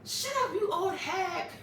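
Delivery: high, laughing comeback; mock bratty retort. Imitating the daughter answering her mother, mock bratty retort.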